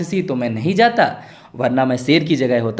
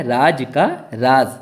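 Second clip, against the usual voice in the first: slow reading aloud; 3 dB louder, much slower than usual. Shown as a demonstration. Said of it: "क्या लिखा है?".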